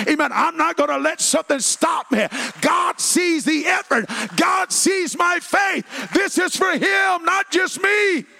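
climbing into a loud, high preacher's cry; preaching at full force. Acted. Pastor rallying the congregation, preaching at full force. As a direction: preach it out, building to a shout.

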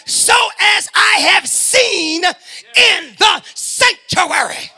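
fervent preaching with cries of praise; impassioned sermon voice. Acted. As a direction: preach the psalm with fire. Preacher reading and exhorting psalms.

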